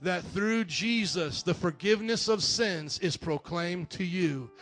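slow, weighty scripture read. Acted. Preacher reads Acts to the church, slow and solemn.

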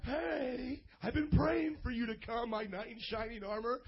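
a hint of a tearful swoon, hammed-up; mock swooning lady. Pastor mocking a single woman swooning over a catcaller. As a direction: lightly play a lovestruck single lady. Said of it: "she's not gonna be like".

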